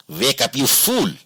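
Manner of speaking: a mild mock yell of an angry boss; hint of a bossy shout. A narrator's reading. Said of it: "he yelled at Somana".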